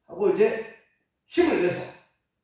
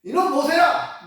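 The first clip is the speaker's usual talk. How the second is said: slow, loud, higher angry shout of the name; angry call; 9 semitones higher, 7 dB louder, slower than usual. Retold or imitated. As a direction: bellow at Moses as angry God. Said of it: "화를 내시면서". (하나님이 화가 나서 모세를 부르는 호통)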